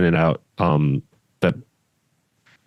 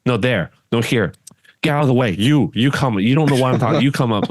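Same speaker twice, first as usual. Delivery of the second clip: higher, imitating a curt referee barking orders; mock bossy referee; 4 semitones higher than usual. Head referee ordering demonstrators around, higher bossy mock voice. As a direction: lightly play a brusque referee directing players. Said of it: "He's like".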